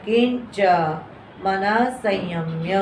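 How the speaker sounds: slow, deliberate scripture reading; measured teacher's recitation; careful Sanskrit recitation. Shown as a demonstration. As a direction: read it out the way students should. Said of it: "तो इसको ऐसे पढ़ना है".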